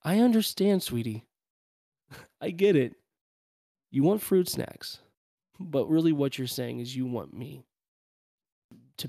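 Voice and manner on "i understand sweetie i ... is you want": sugary patient mom. Acted. Mom answering nagging daughter, exaggerated sweet coo.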